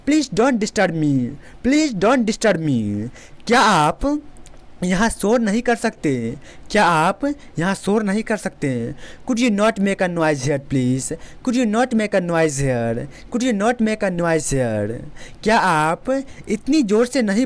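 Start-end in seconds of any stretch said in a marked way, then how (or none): 0.1-3.1 very slow, polite model; slow classroom demo; slow teaching delivery. Shown as a demonstration. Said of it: "teacher models polite refusal". 9.3-15.0 very slow model sentence; slow classroom demo; slow teaching delivery. Shown as a demonstration. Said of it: "teacher models polite request".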